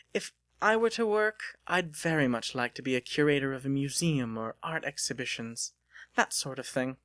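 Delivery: put-on a refined young woman teasing her suitor; Delia's voice. Delia's dream job.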